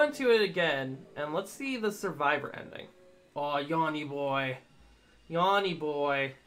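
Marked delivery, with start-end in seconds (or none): 3.3-6.3 slow drawn-out cooing. Real, not acted. Cooing at the dog.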